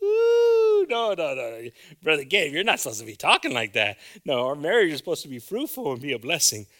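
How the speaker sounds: loud, high anguished outcry; protesting congregant. Acted. Loud high protesting cry. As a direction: church member crying out against the sermon, loud and high.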